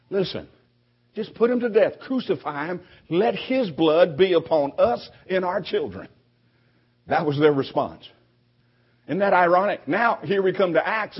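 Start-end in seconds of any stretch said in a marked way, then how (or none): 0.1-6.1 demanding crowd. Retold or imitated. Preacher voices the mob demanding Jesus' death, mock angry. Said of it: "their response was".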